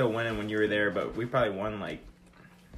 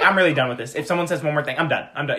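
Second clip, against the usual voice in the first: a lightly voiced fed-up friend, a bit louder; Jesse impression; 2 semitones higher, 5 dB louder, faster than usual. Friend mimics Jesse at ball night, mild mock annoyance. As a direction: mimic a friend close to quitting, half-joking. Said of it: "That's a good Jesse impression".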